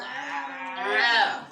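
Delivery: Ah pressed from the middle of the throat, strained; squeezed throaty Ah; throat ain. Shown as a demonstration. Teacher demonstrates ain from the mid throat. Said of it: "press on your middle of the throat and go".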